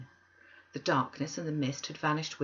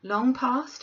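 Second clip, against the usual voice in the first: curious question; 8 semitones higher, 7 dB louder than usual. A narrator's reading. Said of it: "inquired Scrooge".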